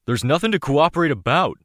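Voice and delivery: defiant, strained. Acted. Mercenary refuses under questioning.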